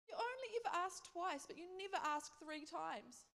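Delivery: high, loud imitation of tearful complaint; mock sobbing. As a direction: wail the accusation in a hammed-up way. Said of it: "sobbing and sobbing".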